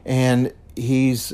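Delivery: ordinary talk, nothing marked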